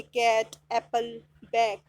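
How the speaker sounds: "कैट, एप्पल, बैग" with an open ae vowel; each of "कैट, एप्पल, बैग" said separately with ae; short-a sound model. Shown as a demonstration. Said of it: "ए की sound आ रही है इसमें".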